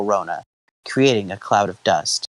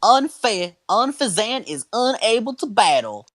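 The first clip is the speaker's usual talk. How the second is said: referee announcer voice; 10 semitones higher than usual. Acted. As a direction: declare the battle result like a referee. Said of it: "I love this voice".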